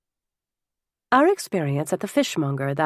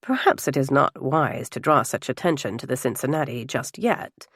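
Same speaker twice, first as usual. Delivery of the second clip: lower, cautious man's voice, lightly done; reserved gentleman; 3 semitones lower than usual. Acted. Reserved guest cautions the table, lightly voiced and lower. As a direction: voice mild reservations, pitched a little down.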